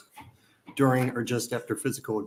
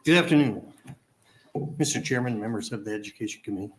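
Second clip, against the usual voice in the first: out of breath. Real, not acted. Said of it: "I'm a little out of breath".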